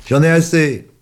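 high loud fed-up shout; angry outburst. Acted. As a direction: storm off yelling. Boy shouts at Yvonne.

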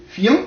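high, demonstrative "fi-ant"; two syllables. Shown as a demonstration. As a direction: give "fiant" two beats, i as a full vowel. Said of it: "deux syllabes".

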